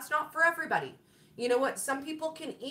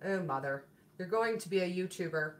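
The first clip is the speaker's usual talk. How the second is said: a hint of an eye-rolling son, a bit lower; lightly voiced teen groaning at his mom; mild lower mock of her son teasing her; 5 semitones lower, 3 dB quieter than usual. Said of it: "He's like".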